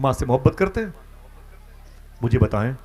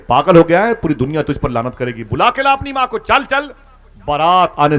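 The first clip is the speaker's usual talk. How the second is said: loud, much higher rebuke; scolding friends; 7 semitones higher, 8 dB louder than usual. Retold or imitated. Friends scolding the son before the wedding, loud and high. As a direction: scold him to bring his mother.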